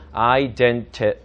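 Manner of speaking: "identity" slowly as eye-den-tuh; syllable-by-syllable demo. Shown as a demonstration. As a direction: spell out "identity" by sound, lax middle vowel. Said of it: "identity는 아니고".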